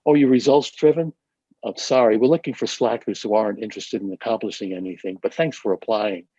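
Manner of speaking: mock-surprised opening, then dry letdown; sarcastic response. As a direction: feign interest, then brush them off with sarcasm. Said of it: "it begs a sarcastic response".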